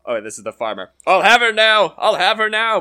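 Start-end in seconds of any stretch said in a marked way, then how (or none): 1.1-2.8 higher, louder bawling from the sack; bawled. Acted. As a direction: bawl it out from inside the sack. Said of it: "bawled the farmer".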